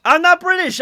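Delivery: frightened insisting. A narrator's reading. Traveller pleading with the automaton, high and loud in fear. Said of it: "I insisted with my eyes shut".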